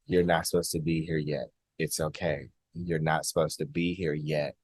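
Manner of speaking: barely above a breath, kind and calm; gentle telepathic voice. Retold or imitated. Alien being sending the visitor home, hushed and gentle.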